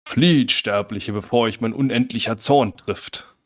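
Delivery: slow, menacing giant voice; booming witch threat. Acted. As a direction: threaten slowly from above. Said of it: "Und dann sagt die Stimme".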